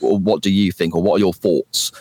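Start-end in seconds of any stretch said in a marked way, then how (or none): 0.2-0.9 "think" pronounced "fink" in the question. Shown as a demonstration. Podcaster showing what makes him cringe, "think" said as "fink". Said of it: "it just comes out as an F". 1.0-1.9 "thoughts" pronounced "foughts", F for TH. Shown as a demonstration. Podcaster showing what makes him cringe, "thoughts" said as "foughts". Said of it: "it just comes out as an F".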